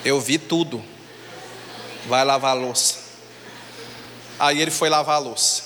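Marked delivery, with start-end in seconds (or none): 0.0-3.0 sly threat. Retold or imitated. Sister blackmails brother.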